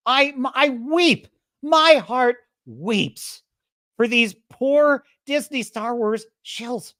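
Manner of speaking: mock-weeping captain; mock pity. Mock sympathy for shills.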